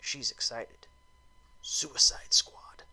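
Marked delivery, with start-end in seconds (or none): 1.6-2.8 slow, breathy stage whisper of the title; spooky whispered title card; dramatic whisper. Pretend. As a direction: hiss the title like a movie trailer. Dramatic title drop in review.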